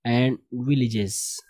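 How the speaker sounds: slow, measured read-aloud; model reading. Shown as a demonstration. Teacher reads story to class, slow model reading. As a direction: read it out slowly for learners.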